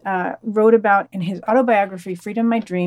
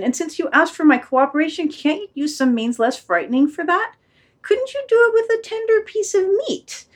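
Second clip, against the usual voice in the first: pleading dog, jumping high on the wish; lightly voiced hopeful plea; timid dog, bargaining; 5 semitones higher than usual. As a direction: coax the master nervously.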